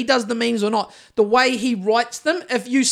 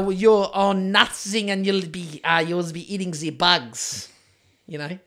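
put-on terrible Klaus accent. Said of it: "It was a terrible Klaus accent".

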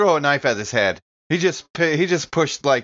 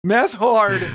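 dumb caveman grunt, higher and louder; mock caveman; 10 semitones higher, 5 dB louder than usual. Player joking about his bad math, mock caveman. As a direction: play it like a dim brute. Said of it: "Math hard when I'm so pissed".

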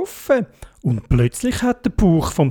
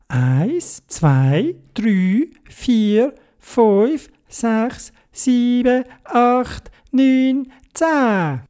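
counting steps; 8 semitones higher, much slower than usual. Acted. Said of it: "angefangen zu zählen".

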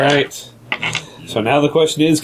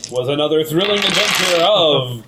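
put-on old radio serial announcer; dramatic serial sign-off. Mock serial narrator outro.

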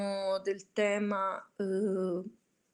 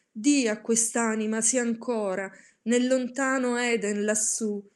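solemn, theatrical recitation of a dark poem; dramatic poem reading. A narrator's reading. Reciter performing The Raven to listeners, solemn and theatrical. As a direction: read it like a brooding gothic poem. Reads Poe's Raven aloud.

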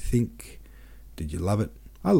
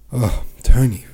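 breathy whispered aside, smiling; 3 semitones higher, 10 dB louder than usual. Acted. Clotilda whispers fondly to Tony, smiling. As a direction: whisper it with a smile.

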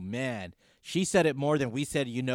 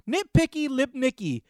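nickname said higher and louder with relish; gleeful echo; 11 semitones higher, 5 dB louder than usual. Real, not acted. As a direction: savor the nickname "Nitpicky lip Nicky", high and loud. Repeats caller's joke nickname.

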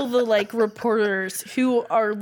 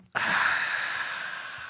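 yawn sigh; 7 dB quieter than usual. Real, not acted. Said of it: "I'm yawning".

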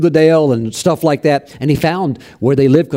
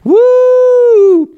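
a preacher voicing an old prophet's astonished woo; amazed joyful whoop; 4 dB louder, much slower than usual. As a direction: burst out in wonder at the revelation. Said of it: "Bevington was like".

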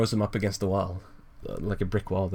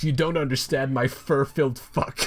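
mildly hammed-up villain rant, higher pitched; Joker; 4 semitones higher than usual. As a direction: rant as a cringe comic-book villain. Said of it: "the Joker rant continues".

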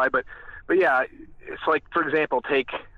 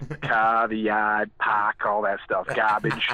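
low New England accent, r's dropped; 4 semitones lower, slower than usual. Shown as a demonstration. New Englander showing his dropped r's, New England accent. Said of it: "Yeah, I say it all".

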